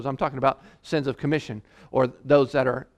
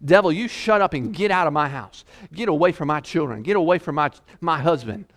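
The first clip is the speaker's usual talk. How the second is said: aggressive rebuke. Pretend. Parent ordering the devil out of the house, aggressive rebuke. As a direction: drive him out like a pit bull. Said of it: "aggressive like a pit bull".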